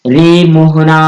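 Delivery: रे मोहना stretched like calling out to someone; drawn-out call. Shown as a demonstration. Teacher demonstrating a calling vowel, drawn out. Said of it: "तिगुना समय लगता है".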